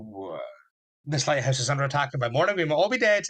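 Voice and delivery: grinning cheerfully through talk of doom, quickening; gleeful with a big smile. Retold or imitated. Doctor cheerfully warning his companions they may die, smiling. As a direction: deliver the danger like it's great fun, smiling. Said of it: "and he's got a massive smile".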